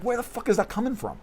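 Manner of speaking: high-pitched, incredulous retold question; retold bewilderment. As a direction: play back your baffled reaction. Retold startled reaction to a voice.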